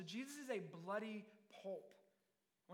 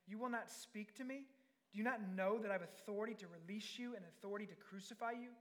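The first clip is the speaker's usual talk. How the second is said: pitched-up affronted questioning; incredulous demand. Acted. Pilate questioning a silent Jesus, incredulous demand. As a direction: press for an answer, mildly indignant.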